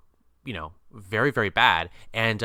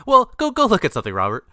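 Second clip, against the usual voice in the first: exasperated yell; 10 semitones higher, 8 dB louder than usual. Retold or imitated. Yelling at the character on screen.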